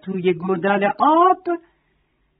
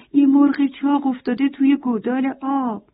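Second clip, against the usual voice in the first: lightly clucky, higher hen voice; clucking hen; 5 semitones higher than usual. Acted. Hen telling the goat about the fat hen, clucking. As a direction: say it like a fussing hen.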